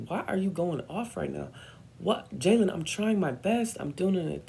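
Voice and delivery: high-pitched defensive mom; arguing mom. Retold or imitated. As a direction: imitate an exasperated mother protesting. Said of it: "an argument with her".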